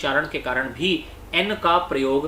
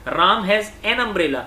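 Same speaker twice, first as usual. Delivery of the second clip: slow example; much slower than usual. Shown as a demonstration. Teacher reads example slowly.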